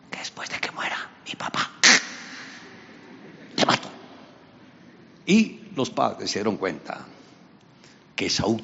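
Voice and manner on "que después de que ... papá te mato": hushed menacing vow; whispered threat. Acted. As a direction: hiss the threat. Esaú threatens his brother.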